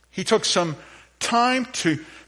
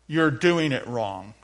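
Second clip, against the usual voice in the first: with attitude; 5 semitones lower, slower than usual. Shown as a demonstration. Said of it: "you gotta say it with an attitude".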